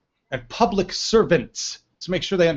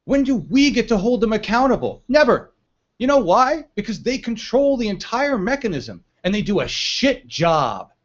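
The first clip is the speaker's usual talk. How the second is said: raised pitch, heated political indignation; indignant rant; 5 semitones higher than usual. Real, not acted. Host ranting to listeners about unaccountable officials, indignant. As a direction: demand answers, voice climbing in indignation.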